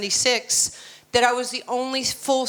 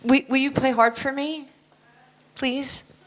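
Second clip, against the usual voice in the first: timid asking. Shown as a demonstration. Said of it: "I don't talk in question marks and commas".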